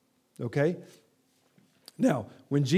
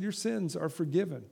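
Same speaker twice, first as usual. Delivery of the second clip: softer, settled words of Jesus; softly repeated; 6 dB quieter than usual. Acted. Jesus to the paralytic man, repeated softly. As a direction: say it again, quietly sure.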